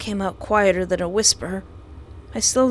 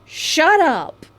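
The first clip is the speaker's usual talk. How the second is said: scream; 8 semitones higher, 4 dB louder than usual. Acted. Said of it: "I screamed".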